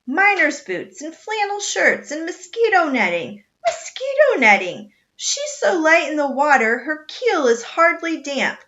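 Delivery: loud, high scornful captain's bellow with a laugh; captain mocking the rival ship's light cargo. A narrator's reading. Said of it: "Captain Swain bellowed".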